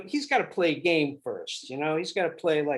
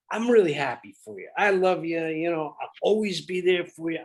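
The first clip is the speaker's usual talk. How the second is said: mock gushing affection; hammed-up loving brother; laying it on thick. Shown as a demonstration. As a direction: overdo the sincerity for a laugh. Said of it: "you're laying it on so thick".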